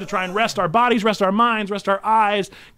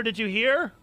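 ordinary delivery

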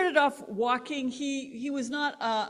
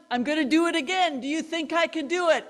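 announcing; 5 semitones higher, 4 dB louder, faster than usual. Retold or imitated. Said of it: "he announced".

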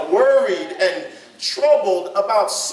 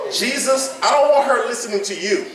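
mock Martha. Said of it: "You know how idiotic that sounds".

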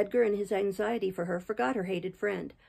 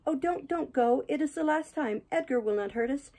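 high, acted frantic begging; shrieked desperate plea; 7 semitones higher than usual. A narrator's reading. Catherine begs her lover not to leave her, desperate and high. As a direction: beg desperately in a raised, thin-volume character cry. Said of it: "she shrieked".

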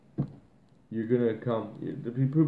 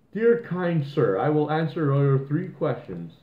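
slow, higher and overly polite; sarcastic gentleman's reply; mock courtesy; 4 semitones higher than usual. Sneering at the smart ass with fake politeness.

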